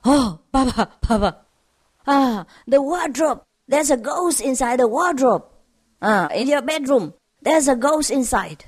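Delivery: a hint of an alarmed little boy; lightly voiced small child. Son warning Papa of ghost, lightly voiced child. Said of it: "his five-year-old son".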